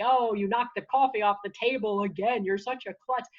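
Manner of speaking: lightly acted scolding inner critic; negative self-talk voice. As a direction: needle yourself over a silly slip. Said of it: "negative self-talk voice in your head".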